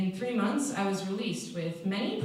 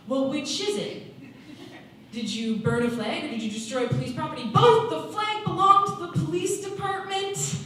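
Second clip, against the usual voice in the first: exasperated protest, jumping up in pitch and volume; exasperated outburst; 8 semitones higher, 6 dB louder than usual. Acted. Juvie newcomer protesting to a questioner, exasperated. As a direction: climb to a high, loud burst on BOTH.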